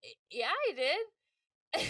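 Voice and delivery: nervously insisting she sent it; hesitant stammer. Retold or imitated. She answers the director, slow stammering nervous yes.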